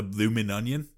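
put-on half-hearted Australian accent; a hint of Australian accent. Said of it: "I half tried to do Evan Quinter's Australian accent".

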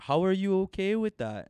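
high-pitched retold disbelief; incredulous. Storyteller replaying his challenge to the sister's brother, incredulous. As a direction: lift the voice high, replaying total bafflement. Retelling incredulous question to Paul.

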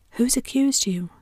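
a voice in the crowd shouting at Potter, a loud whisper; mock shout. A narrator's reading. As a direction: fling the question out from the crowd. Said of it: "shouted a voice".

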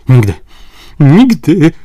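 high, loud Nigdy cry; exclaimed. A narrator's reading. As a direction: shout Nigdy to fend off the major. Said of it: "zawołał".

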